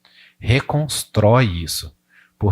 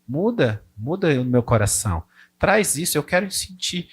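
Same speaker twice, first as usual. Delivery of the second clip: oração sincera; 3 semitones higher than usual. Shown as a demonstration. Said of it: "que você fale e que você fale".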